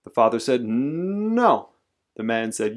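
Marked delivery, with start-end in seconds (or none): 0.6-1.7 long hum on N sliding up; drawn-out, climbing defiance; stubborn refusal. A narrator's reading. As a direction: wind up the NO before releasing it. Father and man in shouting match.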